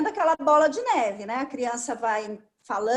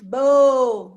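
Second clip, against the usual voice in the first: put-on louder babbled baby syllable; baby babble; 2 semitones lower, 7 dB louder than usual. Shown as a demonstration. Therapist imitating toddler babble, louder. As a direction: mimic a toddler saying just the last syllable. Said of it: "Fala só a sílaba final".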